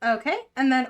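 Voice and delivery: ordinary talk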